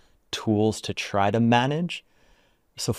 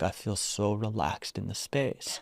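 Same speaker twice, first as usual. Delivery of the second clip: retold relaxation; 9 dB quieter than usual. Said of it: "My whole body's relaxed now".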